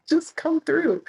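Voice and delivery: high, bright quoted invite; quoted friend. Retold or imitated.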